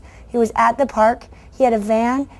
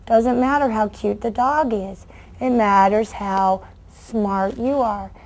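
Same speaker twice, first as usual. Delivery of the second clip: quiet lesson; slower than usual. Shown as a demonstration. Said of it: "I tell kids this all the time".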